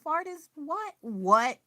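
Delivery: playfully flabbergasted, pitch up; retelling her inner shriek at capitalism; mock baffled outburst. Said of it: "So I was like".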